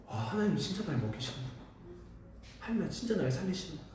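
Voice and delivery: soft, tear-filled thanks to God; tearful hushed prayer. Retold or imitated. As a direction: pray it quietly as if just after weeping. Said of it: "엉엉 울었어요".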